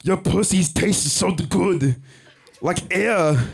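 dirty Arnold voice. Acted. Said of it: "You want dirty?".

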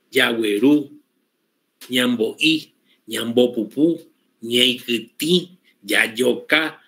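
plural Guaraní words stressed on the last vowel; Guaraní final stress. Shown as a demonstration. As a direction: land hard on the last syllable each time. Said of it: "Se terminan cargadas en la última vocal".

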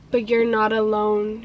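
low, gentle imitation of him; tender retold reassurance. Friend tells crying woman she has him, tenderly.

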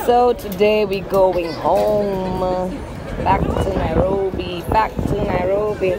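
hoarse, worn-out voice; raspy voice. Real, not acted. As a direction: talk through a strained throat. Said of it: "I lost my voice".

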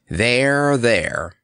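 mildly gruff interruption; a touch of lion's gruffness. Acted. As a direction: cut in with two separated words, falling. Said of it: "interrupted the Cowardly Lion gruffly".

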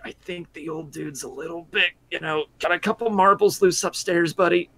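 confiding aside. Acted. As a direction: lean in and mutter. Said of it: "I lean over to Duros".

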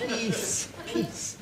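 hushing. Acted. Calming the bickering poets.

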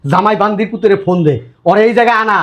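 heated, insistent commands; angry orders. Acted. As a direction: rant that climbs steadily in pitch. Quarrel, ordering son-in-law be phoned.

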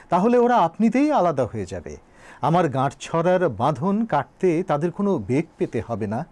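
declaimed argument in measured phrases; emphatic, rolling oratory; formal speech recitation. Acted. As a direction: deliver it as a poet's public address. Recites Nazrul's speech aloud.

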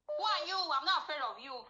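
acted fearless comeback; retold defiance. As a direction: stand up to him, unafraid. Retold defiant comeback, standing up to him.

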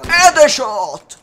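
loud triumphant headshot call; excited shout. Real, not acted. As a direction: yell it like a kill streak. Celebrates a kill. (urlo esultante)

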